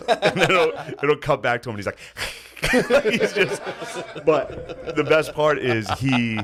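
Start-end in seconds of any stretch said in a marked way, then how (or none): 2.2-3.0 squeaky delighted giggle; a tiny high cackle of glee; mock gleeful vampire giggle.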